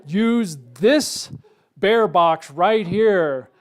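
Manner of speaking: "use this bear box right here" very slow and loud, each word weighted; mock emphatic. Warning sign he parked in front of, slow exaggerated emphasis. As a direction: spell out "this" and "right here" heavily, as if to a fool.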